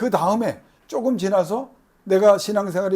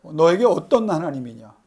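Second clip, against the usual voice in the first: God's question; 5 dB louder than usual. Retold or imitated. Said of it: "하나님이 여러분에게 질문하는 걸".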